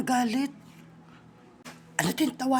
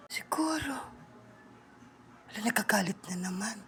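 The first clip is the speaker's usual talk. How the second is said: quick whisper, lower; 8 semitones lower, 14 dB quieter than usual. Real, not acted. Kids gossiping about the upset friend, fast whisper. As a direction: rush it out under your breath.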